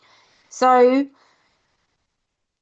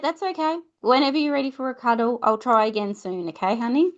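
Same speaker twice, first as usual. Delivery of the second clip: soothing parent; 3 semitones higher, faster than usual. Shown as a demonstration. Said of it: "remember that rupture and repair".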